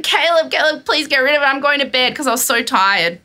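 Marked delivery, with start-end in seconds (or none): 0.0-2.1 higher, stressed pleading; imitated stressed plea. She begs partner to remove mouse, stressed plea. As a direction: beg as if at your wits' end. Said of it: "I got really stressed".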